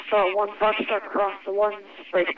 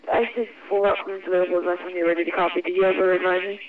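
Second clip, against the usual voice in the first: crackly military radio; faster than usual. Real, not acted. ATC radio exchange.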